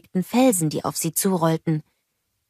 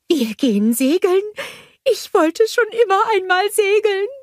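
much higher, louder snowman voice; excited snowman, pitched up high; Olaf's voice; 5 dB louder than usual. A narrator's reading. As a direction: play the eager little snowman. Olaf voiced in story.

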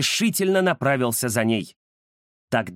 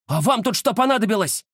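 startled exclamation; 7 semitones higher, faster than usual. Acted. Ramzes startled by the gang at the window, exclaiming. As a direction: call out at the unexpected intruders. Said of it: "воскликнул он".

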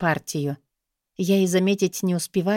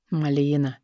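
whispered name; 4 semitones lower than usual. A narrator's reading. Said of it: "шепчет".

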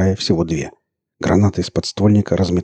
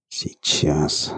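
quick unvoiced mutter; 4 semitones lower, 6 dB quieter than usual. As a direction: mumble it under your breath. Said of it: "пробормотал Марк".

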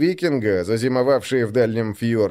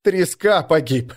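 urgent panting report; 5 semitones higher than usual. Acted. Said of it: "задыхаясь, выпалил он".

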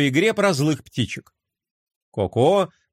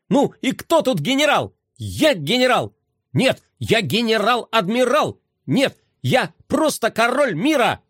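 proud little toy, higher and brighter; boastful toy voice; 6 semitones higher than usual. A narrator's reading. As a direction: boast like a tiny general.

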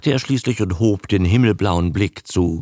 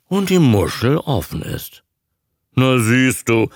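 loud; 9 semitones higher, 4 dB louder than usual. Retold or imitated. Captain coaching lizards loudly.

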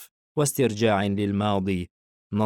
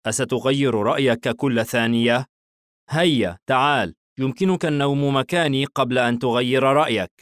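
weary; 4 semitones higher, 4 dB louder than usual. A narrator's reading. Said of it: "تنهد حايم بكلل".

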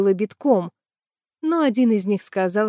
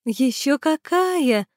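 slow, higher smiling agreement; 6 semitones higher, much slower than usual. A narrator's reading. Tanya agrees with Sima, slow and smiling. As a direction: agree with a smile. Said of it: "улыбнулась Таня".

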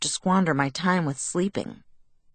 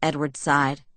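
usual speaking voice

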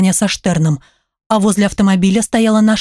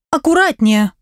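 возмущённый вскрик; 5 semitones higher than usual. Acted. Получила шваброй по ноге.

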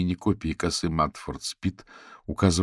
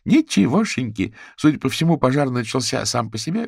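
emphatic confirmation; 7 semitones higher, 6 dB louder than usual. A narrator's reading.

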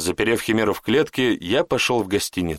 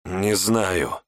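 hissing; 2 semitones lower than usual. Acted. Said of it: "прошипел".

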